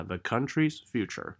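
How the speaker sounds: "country's future" as one unit with two beats; two stresses. Shown as a demonstration. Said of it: "两个重音".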